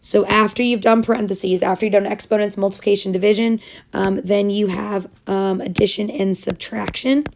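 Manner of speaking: raspy, worn-out teacher voice; hoarse voice. Real, not acted. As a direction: voice nearly gone, speaking through it. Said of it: "even though I sound all hoarse and sick".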